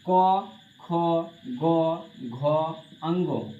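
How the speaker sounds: each consonant spoken apart, slowly, with long pauses; teacher reciting the alphabet slowly; slow letter recital. Shown as a demonstration. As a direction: drill the letters क ख ग घ अंगो one at a time. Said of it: "देखो".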